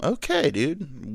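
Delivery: slow, drawn-out sarcastic okay dude; very slow, dry disbelief. Real, not acted. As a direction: draw it out, unimpressed. Sarcastic reaction.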